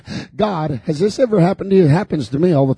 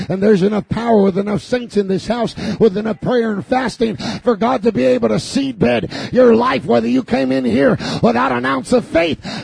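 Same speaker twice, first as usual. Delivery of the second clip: full-force preaching; 6 semitones higher than usual. Acted. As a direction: build the sermon to a climax.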